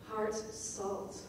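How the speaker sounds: "Heart salt" as two hard separate hits; harsh stresses. Shown as a demonstration. Teacher showing harshly punctuated words, separated. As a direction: punch "Heart" and "salt" apart. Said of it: "harshly punctuated".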